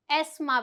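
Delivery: एस्मा with the th silent; correct pronunciation. Shown as a demonstration. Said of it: "यहाँ पे जो टीएच है वो साइलेंट रहेगा". (एस्मा सही उच्चारण)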